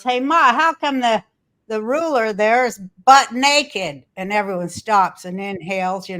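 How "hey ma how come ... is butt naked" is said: put-on a light, higher kid voice calling to his mother; kid's voice. Child tugging at his mother's sleeve, light kid voice. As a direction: innocently point out the naked ruler. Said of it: "that kid goes".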